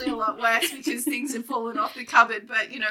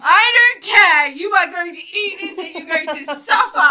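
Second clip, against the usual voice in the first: mock stern self-scolding; 7 semitones higher, 10 dB louder than usual. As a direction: play a strict inner tyrant, half laughing. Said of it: "I'm like".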